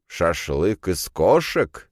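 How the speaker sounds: slow, wary question; unsure whether he heard right; cautious, slow question about cat kebab. Acted. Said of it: "осторожно произнёс Кирилл".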